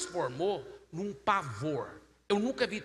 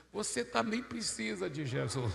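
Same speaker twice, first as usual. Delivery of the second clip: tearful woman; 3 semitones higher than usual. Retold or imitated. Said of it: "ela olhou pro marido que ainda tava chorando".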